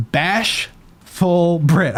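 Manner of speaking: slow lisping through a retainer. Real, not acted. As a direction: drag it out with a lisp. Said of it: "I sound so stupid saying that".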